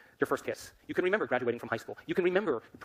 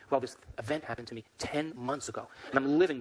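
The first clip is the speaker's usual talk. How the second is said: aggrieved explaining. Acted. Angry person explains the past event, aggrieved explaining.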